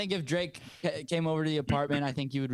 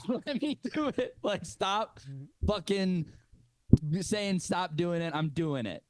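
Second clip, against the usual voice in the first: mock rapper plea; 4 semitones higher, slower than usual. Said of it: "he's like".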